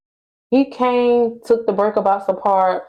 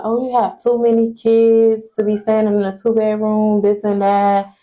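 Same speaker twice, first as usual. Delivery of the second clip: droning mock complaint, held on one raised note; mocking landlord imitation; 3 semitones higher than usual. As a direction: mimic his excuse in a monotone drone. Mimicking landlord's excuse about the kids.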